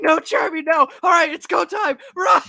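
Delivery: high, loud shouting; manic mock panic. Crew forced into action by Charmy, manic mock panic. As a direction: yell it in comic desperation.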